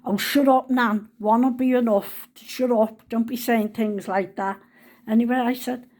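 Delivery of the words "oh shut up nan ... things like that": raised, protesting voice easing off; retold shout downstairs. Granddaughter telling Nan to shut up, imitated shout. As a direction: shout it down the stairs, then ease. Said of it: "Leah shouts down".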